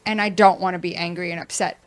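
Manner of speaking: ordinary talk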